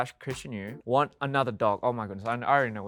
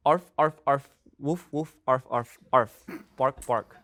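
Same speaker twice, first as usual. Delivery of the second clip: dog barks; slower than usual. Retold or imitated. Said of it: "simulate a wild animal noise".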